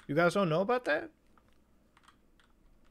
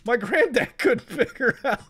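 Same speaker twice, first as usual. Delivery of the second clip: mock innocent teacher; 6 semitones higher, 5 dB louder than usual. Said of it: "She's like".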